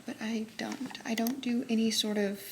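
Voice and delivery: whispered aside. Real, not acted. Confessing she dislikes tea.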